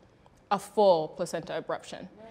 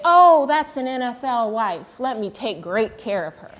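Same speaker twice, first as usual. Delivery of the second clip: higher, louder mock-eager fawning; mock fawning staff; 4 semitones higher, 7 dB louder than usual. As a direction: gush over the celebrity wife, hammed up. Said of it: "they didn't look at me and say".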